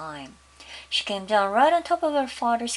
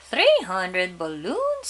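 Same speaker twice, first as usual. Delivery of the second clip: amazed clown; 5 dB louder, much slower than usual. Acted.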